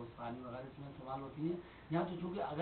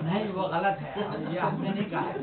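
raised, higher voice imitating a rebuke; loud objection; 5 semitones higher, 10 dB louder than usual. Imitating the teacher rejecting the student's reading, loud objection. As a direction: cut in loudly to correct the student.

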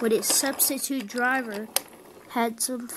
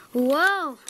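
startled whoa; 5 semitones higher, 6 dB louder than usual. Acted. Inspection car jolting around.

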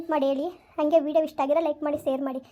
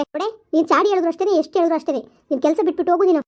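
imitating the madam's scolding, a bit louder; retold scolding; 5 dB louder than usual. Maid retelling how the madam scolded her, mock scolding. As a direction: replay her telling-off with mild heat. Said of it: "ಹಿಂಗ್ ಬೈತಾ ಕೂತವ್ರೆ".

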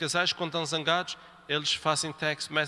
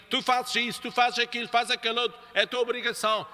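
mock bossy husband; 4 semitones higher than usual. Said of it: "muitas vezes os maridos".

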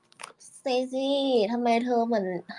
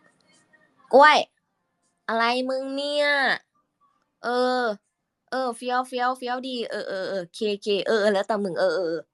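voice for Kluay; 5 semitones higher, slower than usual. Shown as a demonstration. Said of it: "คุยกับกล้วยใช่ไหม".

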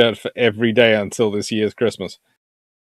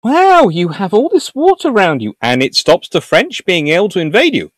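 acted admiring Dutch; 6 semitones higher than usual. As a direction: marvel at a brilliant idea. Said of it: "they look at the British and go".

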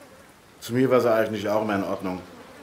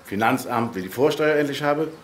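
rural dialect. Acted. Mailbox speaks in dialect.

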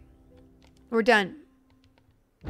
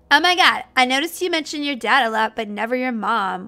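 lightly voiced Valley Girl, gossipy question; 5 dB louder than usual. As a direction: play the character as a Valley Girl. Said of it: "I think Valley Girl's really more appropriate".

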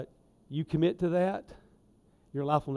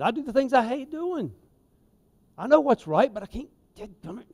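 frustrated with oneself; 9 semitones higher than usual. Acted. Preacher acting out Paul's struggle for the congregation, frustrated with himself. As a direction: voice Paul's self-frustration, pitched well up. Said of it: "you get frustrated with yourself".

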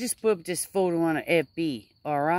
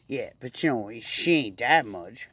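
usual speaking voice

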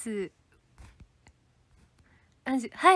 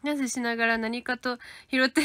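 normal talking voice

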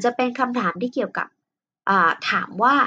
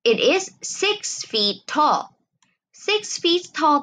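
slow example reading; 7 semitones higher, much slower than usual. Shown as a demonstration. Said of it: "กับ".

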